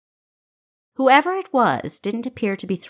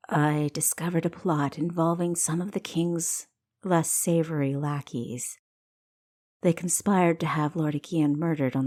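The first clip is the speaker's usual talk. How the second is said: hooded stranger; 2 semitones lower than usual. Acted. Hooded stranger warns of plot.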